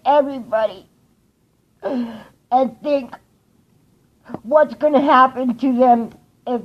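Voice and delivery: urgent, emphatic appeal; earnest, insistent warning; impassioned plea. Real, not acted. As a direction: plead with everyone watching. Urgent plea about pollution and cancer.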